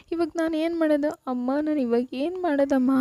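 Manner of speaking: rising panic on the repeat; panicked repeat. Acted. Groom panicking, repeats higher.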